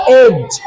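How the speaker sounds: "एज" with only j at the end; silent d. Shown as a demonstration. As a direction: say "एज" without a d stop. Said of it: "डी silent".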